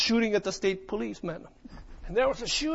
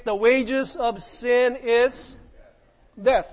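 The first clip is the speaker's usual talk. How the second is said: scripture reading; much slower than usual. Acted. Scripture quote slowly read.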